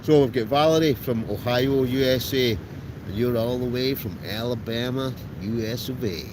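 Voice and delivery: a light mock-American shout-out; American accent. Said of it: "That's probably, my, my, my, my American accent".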